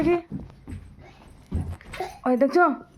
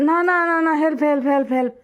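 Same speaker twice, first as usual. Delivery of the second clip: higher, louder play-acted cry for help; mock panic; 4 semitones higher, 4 dB louder, faster than usual. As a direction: pretend to plead for rescue, easing off. Mock rescue game with child.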